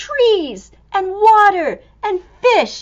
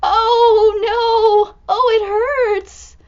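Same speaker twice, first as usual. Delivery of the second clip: stuck elephant cries; 7 semitones higher, 6 dB louder, much slower than usual. Acted.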